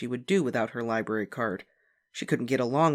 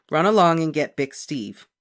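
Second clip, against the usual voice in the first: mother; 3 semitones higher, 8 dB louder than usual. A narrator's reading. Mother voiced in story.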